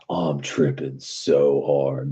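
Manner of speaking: slow, spaced-out mock stoner drawl; imitating stoned friend. Friend in the car, doing a slow mock stoner drawl. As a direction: play the dazed friend, dragging it out.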